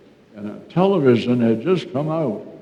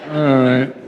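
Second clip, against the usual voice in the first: louder, decisive all right; all right, said louder to restart; firmer all right; 5 dB louder than usual. Real, not acted. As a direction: say it to get going. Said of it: "A little faster?".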